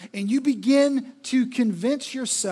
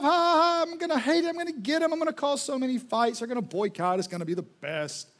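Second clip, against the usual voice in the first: mock-laughing Satan; 3 semitones higher than usual. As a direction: laugh it off as the scheming devil. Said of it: "he's just laughing his head off".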